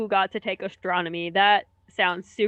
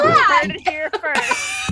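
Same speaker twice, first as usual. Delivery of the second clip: announcer shout; 3 dB louder, slower than usual. Acted. Teasing announcement.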